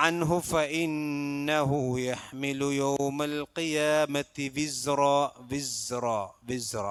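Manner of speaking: slow, drawn-out chanted recitation; Quran recitation. Shown as a demonstration. Teacher reciting a verse for students, slow chant. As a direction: intone the verse slowly as a model. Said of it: "teacher recites verse as model".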